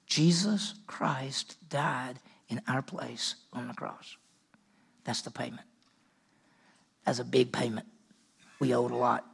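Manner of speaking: low, soft, slow reverence; hushed solemn. Real, not acted. Preacher telling congregation of Christ's payment, hushed and solemn. Solemn point about the cross.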